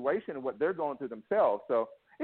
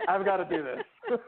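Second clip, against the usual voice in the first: high, slow, put-on pep-talk voice; mock self-pep talk. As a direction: psych yourself up, slowly and way up high. Pumping himself up to work out.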